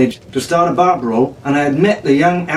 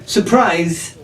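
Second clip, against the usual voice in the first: dry mock cheer on "Surprise"; sarcastic; 4 semitones higher than usual. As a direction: say it flat-out sarcastic, unimpressed. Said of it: "Arabella said sarcastically".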